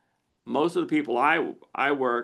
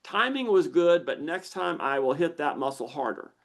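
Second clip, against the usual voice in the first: eager lizard brain; 5 semitones higher than usual. Retold or imitated. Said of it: "it goes".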